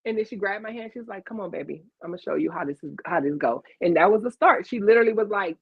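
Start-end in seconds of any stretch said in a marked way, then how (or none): 1.2-3.6 low, soft reassurance; retold coaxing. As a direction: imitate a mentor gently taking charge, pitched down. Retold mentor coaxing, taking her hand.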